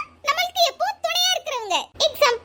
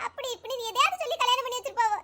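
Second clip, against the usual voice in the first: tearful confession; 2 semitones lower, 7 dB quieter than usual. Acted. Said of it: "இப்ப அழுறது நிப்பாட்டு".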